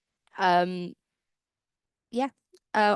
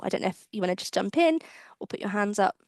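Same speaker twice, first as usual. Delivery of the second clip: whispered aside to the panel; a hushed off-mic aside, unvoiced. Real, not acted. Host whispering to the panel about raising hands.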